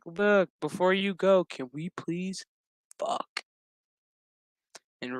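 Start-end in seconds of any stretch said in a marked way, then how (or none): 0.0-3.4 soft pleading that jumps to a squeak on the last word; hammed-up breathy request ending in a high squeak; mock pleading. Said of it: "homegirl's like".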